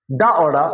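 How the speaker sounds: first डा plain, second डा with the tongue flipping down; contrasting two डा sounds. Shown as a demonstration. Teacher showing pupils how the two डा sounds differ. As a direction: say डा twice, changing the tongue on the second. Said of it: "इतना अंतर है".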